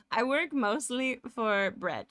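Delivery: slow put-on voice on request; requested silly voice. Streamer doing the voice chat asked for, slow and put-on. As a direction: drag it out in a put-on character voice. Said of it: "in that voice?".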